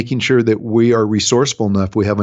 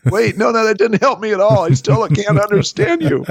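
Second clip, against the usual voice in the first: exasperated; 10 semitones higher than usual. Retold or imitated. Father begging daughter to repeat.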